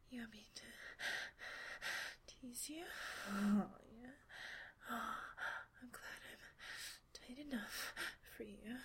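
half-whispered, breathy voice; breathy intimate murmur. Acted. Speaker to a lover, breathy intimate murmur. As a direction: murmur through heavy breaths.

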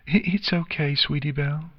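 high, halting little filly voice; reassuring. A narrator's reading. Nix assures Sweetie Belle, high halting reassurance. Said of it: "Nix assured her friend".

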